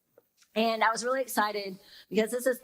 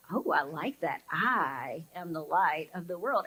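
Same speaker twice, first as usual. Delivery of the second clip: pleased; 5 semitones lower than usual. Retold or imitated. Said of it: "makes you feel special".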